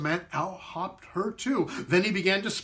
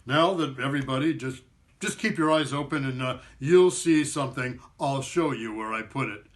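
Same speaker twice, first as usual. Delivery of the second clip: drawl; 4 semitones lower than usual. Acted. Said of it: "kind of drawled".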